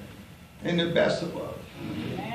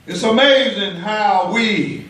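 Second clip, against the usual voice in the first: preaching at full force. Acted. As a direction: keep the fire up for the church.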